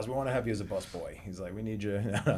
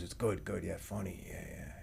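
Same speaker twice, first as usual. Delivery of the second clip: put-on raspy voice, much quieter; 3 semitones lower, 10 dB quieter than usual. Quoting what Richie told the speaker, imitating Richie's raspy voice. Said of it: "Richie had a very raspy voice".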